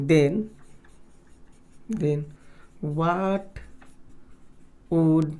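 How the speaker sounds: slow, word-by-word dictation with long pauses. Real, not acted. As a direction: dictate it for note-takers, repeating as you write. Dictates a question while writing. (रुक-रुक कर लिखवाते हुए)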